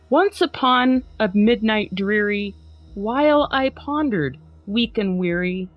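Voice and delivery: lightly dramatic recital of a spooky poem; dramatic poem reading. Acted. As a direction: read it like a mildly hammed-up Halloween recital. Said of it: "a dramatic, if not comical, reading".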